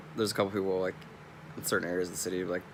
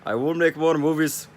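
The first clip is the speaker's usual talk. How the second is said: Arnold Schwarzenegger; 7 semitones higher, 9 dB louder than usual. Retold or imitated. Quoting the ex-governor about his films, heavy put-on voice. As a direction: announce it like a movie hero. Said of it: "he was like".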